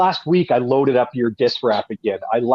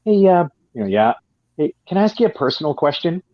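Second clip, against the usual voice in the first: lightly voiced nosy coworker, pitched up at the start; a hint of a curious coworker's higher voice; 4 semitones higher than usual. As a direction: imitate a prying office colleague, lilting up on the question. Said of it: "Janice from accounting will come up and say".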